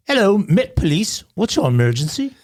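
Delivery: put-on a mild British accent, lightly done. Host voicing the Met Police dispatcher, mild British accent. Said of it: "how great my British accent is".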